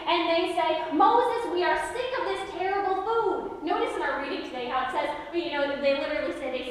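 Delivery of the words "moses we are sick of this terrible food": higher, whiny complaint from the crowd; mock-whine it like a grumbling crowd; whining Israelites. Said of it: "whining and complaining".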